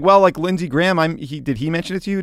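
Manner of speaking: high, loud mock Trump fishing for names; hammed-up Trump asking who told the reporter; Trump impression. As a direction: push it up high and loud as if feigning surprise. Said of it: "he's like".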